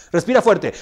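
loud firm instruction; coaching command. Retold or imitated. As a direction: order it loudly, like a coach. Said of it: "el psicólogo le dice".

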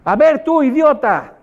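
high, loud call across the street; street shout. Retold or imitated. Someone in the street shouts an insult at passersby, loud and high. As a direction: yell at a stranger to get their attention. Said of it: "y grita".

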